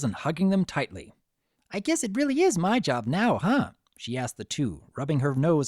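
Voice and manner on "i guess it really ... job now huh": bubbly Pinkie voice. A narrator's reading.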